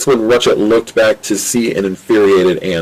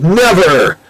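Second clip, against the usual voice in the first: defiant shout; 9 semitones higher, 3 dB louder than usual. Acted. Ratchet refuses to apologize.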